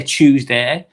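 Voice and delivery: Tuesday with a ch sound, chewsday; Tuesday starting like chew. Real, not acted. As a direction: say Tuesday as chooz-day in a local accent. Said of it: "I'm saying, like, chew".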